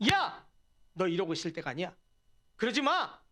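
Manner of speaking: acted rebuke to oneself; mild self-rebuke. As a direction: scold yourself lightly to pull yourself together. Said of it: "자신을 꾸짖고 독려하면서".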